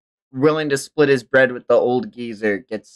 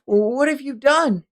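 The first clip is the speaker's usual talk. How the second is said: Mira. Acted. Mira voiced reading a manga.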